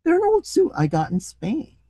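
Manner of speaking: animated, expressive storybook reading; story narration. A narrator's reading. Reader telling a comic short story to listeners, animated narration. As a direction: read it out with lively rises and falls.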